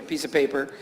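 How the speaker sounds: quiet echo repeating "piece of paper"; echoing tic. Retold or imitated. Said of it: "repeat just the last three words".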